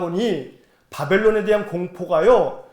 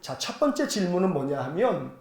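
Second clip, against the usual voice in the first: ordinary talk, nothing marked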